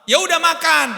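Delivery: fed-up mom barking an order; shouting at a picky kid to just eat; irritated mother. Retold or imitated. Mother snaps at fussy child.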